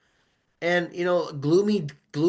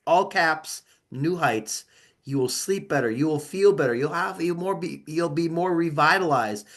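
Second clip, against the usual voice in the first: ad read. Acted. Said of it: "I'd like to say a word from our sponsors".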